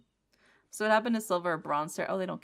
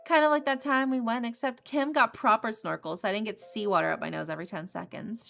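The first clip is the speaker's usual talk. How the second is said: higher, bright-voiced ex showing off her new love; gushing ex; 5 semitones higher, 3 dB louder than usual. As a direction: rub it in sweetly. Rami keeps bragging.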